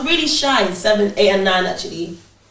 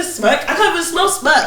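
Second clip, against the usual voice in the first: giggling through a cheeky comeback; laughing cheeky reply; 4 semitones higher than usual. Retold or imitated. To a scolding teacher, laughing playful reply. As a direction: laugh while playing dumb. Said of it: "I said".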